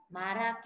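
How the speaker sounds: Maraki read as one joined-up word; linked sounds. Shown as a demonstration. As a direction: link the sounds smoothly through Maraki. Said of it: "các bạn sẽ đọc nối âm là".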